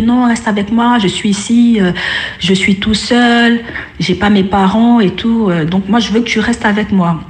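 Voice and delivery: lightly voiced child begging her to stay; a hint of a lonely child pleading, slow in places. Lonely ghost child begging the sister to stay, mildly pleading. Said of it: "l'enfant a commencé à la supplier".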